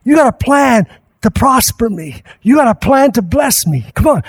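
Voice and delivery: ordinary delivery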